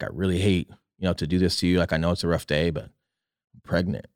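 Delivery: a soft, slowed-down retelling of his wife's words; quiet retold confession. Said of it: "and she's like".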